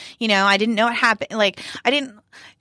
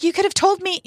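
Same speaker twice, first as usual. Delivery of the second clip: mock scold; 10 semitones higher than usual. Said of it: "She's like".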